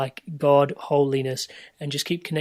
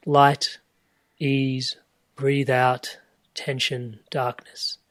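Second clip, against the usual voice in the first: guided meditation breath cues; much slower than usual. Shown as a demonstration. Sharing her own meditation breathing, a gentle guide's voice. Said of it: "for most of my meditations, it's like".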